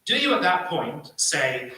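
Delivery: ordinary delivery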